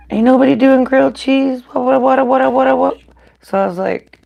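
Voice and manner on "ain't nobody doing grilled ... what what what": mock boastful friend, higher and louder; imitating Mike. Host mimicking Mike's teasing boast, loud and higher. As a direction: ham up a cocky taunt. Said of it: "Mike was like".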